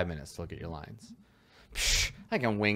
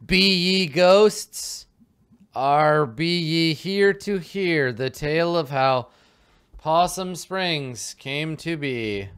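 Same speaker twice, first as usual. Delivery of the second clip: spooky narrator; 9 semitones higher, 8 dB louder, slower than usual. Acted. Ghost narrator addresses travelers.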